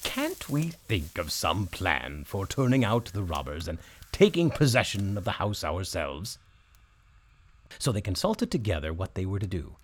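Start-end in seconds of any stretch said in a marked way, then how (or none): 0.0-6.4 donkey voice. Acted. Donkey proposes plan.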